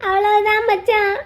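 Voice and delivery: slow tearful lament; crying. Acted. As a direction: stretch it out through tears. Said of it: "எதுக்கு மச்சி அழுகுற". (அழுகையோடு இழுத்துச் சொல்வது)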